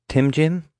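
high, rising doubtful echo; doubtful question. A narrator's reading. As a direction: repeat it, trying not to scoff. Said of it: "trying not to sound too dismissive".

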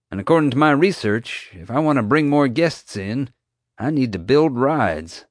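breezy park owner brushing it off; lightly voiced park owner; mild showman voice. JJ explaining himself.

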